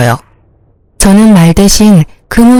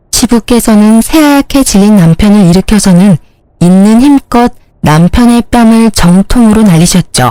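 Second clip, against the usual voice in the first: plain reading voice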